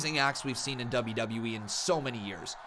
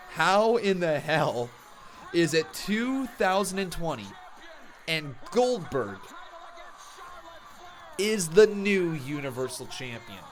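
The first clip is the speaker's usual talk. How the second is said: incredulous rant; 2 semitones higher than usual. Real, not acted. Fan ranting to his viewers about Goldberg, outraged shout. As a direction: hammer each part in outraged disbelief.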